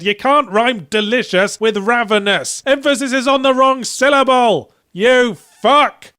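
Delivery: furious yell. Pretend. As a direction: scream it at the game, losing it completely. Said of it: "and yelled".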